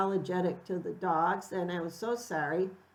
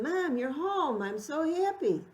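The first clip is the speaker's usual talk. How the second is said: mock gleeful greeting; 8 semitones higher than usual. Imagined family greeting.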